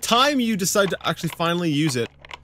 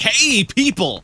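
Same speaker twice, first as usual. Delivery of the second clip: hammed-up call, higher, louder and drawn out; calling out to people; 9 semitones higher, 6 dB louder, slower than usual. Player mock-advertising the place to viewers, hailing loudly. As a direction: hail a crowd from across the street. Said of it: "I'm like".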